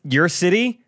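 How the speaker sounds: teasing a future announcement. Acted. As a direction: tease like a coy trailer voice. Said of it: "How do we tease him".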